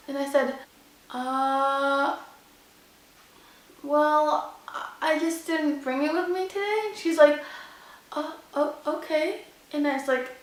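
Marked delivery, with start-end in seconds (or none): 1.1-6.8 soft, hesitant retold excuse with long pauses; stall, then offer it in a small voice; sheepish excuse. Driver explains forgotten license to the woman, sheepish. 8.1-9.4 soft, halting retold "okay"; taken-aback hesitation. Woman hears driver has no license, taken aback.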